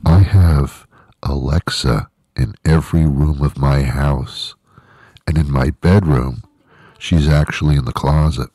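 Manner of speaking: hushed secret whisper behind cupped hands; conspiratorial whisper into the mic. Real, not acted. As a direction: whisper it so Alexa won't hear. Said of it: "I gotta say this quietly".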